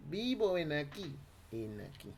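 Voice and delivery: Andean Spanish demo. Shown as a demonstration. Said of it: "Es un castellano andino".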